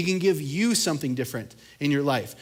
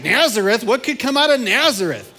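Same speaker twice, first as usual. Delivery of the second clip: a louder, higher, hammed-up sneer at Nazareth; mock scoffing; 6 semitones higher, 6 dB louder than usual. Pastor voices Nathanael doubting Philip, in mock scorn. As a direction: act out a doubter's disbelief.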